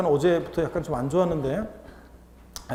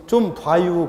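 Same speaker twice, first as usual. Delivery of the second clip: Chungcheong dialect; 6 dB louder, much slower than usual. Shown as a demonstration. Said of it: "진짜 세 글자잖아요".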